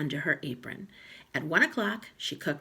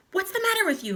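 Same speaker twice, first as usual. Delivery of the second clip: grumpy husband; 5 dB louder, faster than usual. Acted. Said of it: "Mister Twit said".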